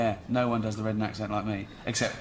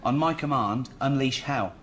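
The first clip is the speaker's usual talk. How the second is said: put-on Gladiator line in a Reading accent; rally the troops, broad Reading accent; 2 semitones higher, 4 dB louder than usual. Actor quoting Gladiator to the producer in a Reading accent. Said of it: "Did you just do that in the Reading accent?".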